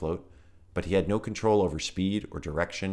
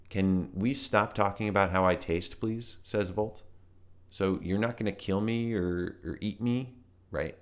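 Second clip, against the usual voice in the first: put-on higher, uneasy young voice; nervous young bug; 4 semitones higher than usual. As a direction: ask it warily. Volt character voice.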